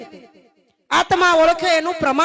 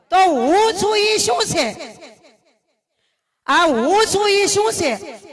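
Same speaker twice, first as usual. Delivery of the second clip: laughing guru voice; 4 semitones higher, slower than usual. Retold or imitated. Guru's puzzled question, laughing.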